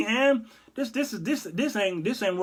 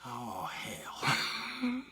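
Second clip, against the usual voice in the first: low Jesus; 5 semitones lower, 9 dB quieter than usual. Pretend. Jesus reply.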